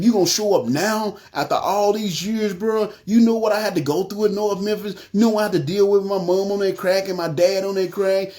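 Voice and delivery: mildly heated airing of grievances at God; going off on God. Retold or imitated. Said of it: "I'm just going off on God".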